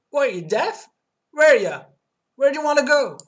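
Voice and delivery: loud, high, brash New York cabbie; bad New York accent. Cab dispatcher yelling at the caller, terrible New York accent. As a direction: bark it like a pushy New York cab driver. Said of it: "I'm doing a terrible accent".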